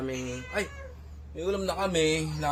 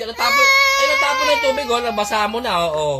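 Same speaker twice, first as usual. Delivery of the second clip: alarmed fuss; 6 semitones higher, 9 dB louder than usual. Real, not acted. Consoling crying child, spilled water.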